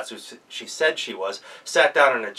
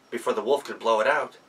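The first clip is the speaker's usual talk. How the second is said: ordinary delivery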